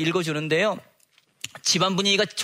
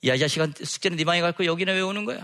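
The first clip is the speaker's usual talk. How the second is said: scolding father; 2 semitones higher, faster than usual. Retold or imitated. Gangster-like father scolds son.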